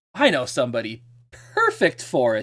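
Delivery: giddy, bouncy, teasing swooping sing-song. Retelling the Emperor's answer to a request for help, mockingly mimicking the Emperor in a giddy mood. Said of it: "mockingly kind of trying to mimic the Emperor's in one of his more giddy moods".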